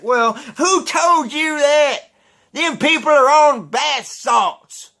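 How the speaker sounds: high, slow hick drawl; redneck impression. Imitating redneck scorning the rumor, slow hick voice. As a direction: lean into a slow mocking redneck voice. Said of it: "he kinda sounded like this".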